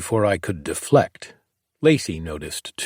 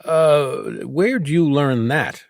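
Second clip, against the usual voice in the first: shocked; 6 semitones higher, slower than usual. A narrator's reading. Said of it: "legitimate shock".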